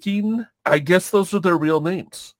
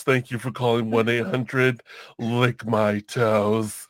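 sultry phone line voice; 2 semitones lower than usual. Pretend. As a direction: purr it like a hotline operator. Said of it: "only work at sex call lines".

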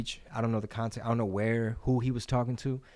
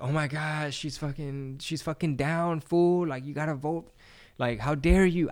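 higher, scolding mock outrage; mock outraged voter; 4 semitones higher than usual. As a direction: play a shocked partisan scolding. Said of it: "y'all act like".

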